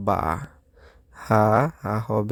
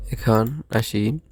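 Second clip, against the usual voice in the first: whisper; much slower than usual. Real, not acted. Teacher whispers a transition.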